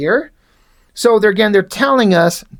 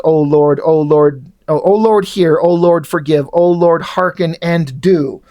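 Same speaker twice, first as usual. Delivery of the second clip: praying man; 4 semitones lower than usual. Acted. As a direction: intone it like a fervent worshipper.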